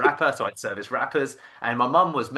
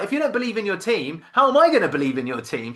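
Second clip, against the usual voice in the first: retold rant, high-pitched then louder; wife going nuts; 9 semitones higher, 6 dB louder than usual. Wife to husband about his team, indignant. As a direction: imitate a wife challenging him hard. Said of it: "just going nuts at me".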